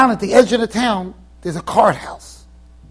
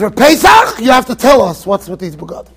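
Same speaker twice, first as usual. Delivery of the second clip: calling out; 5 dB louder than usual. Retold or imitated. Divrei Chaim demands an answer.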